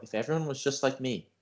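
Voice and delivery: as if enlightened, calm and hushed; a touch of mock nirvana calm; quiet and calm. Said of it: "he got real quiet and real calm".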